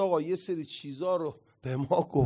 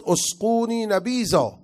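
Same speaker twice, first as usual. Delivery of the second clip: mild mock yell, higher and drawn out; raised, slow retold cry; 5 semitones higher than usual. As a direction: call it out slowly, imitating a man crying for drink. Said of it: "فریاد زد".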